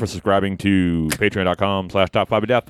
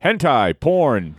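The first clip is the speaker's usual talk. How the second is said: mock request; 5 semitones higher, much slower than usual. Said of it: "I just look at Fro and I go".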